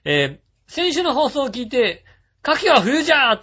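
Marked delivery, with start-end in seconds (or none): 2.5-3.4 higher, louder exclamation, playful; mock shout. A host reads a listener's inner cry as a playful shout. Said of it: "と心の中で思った".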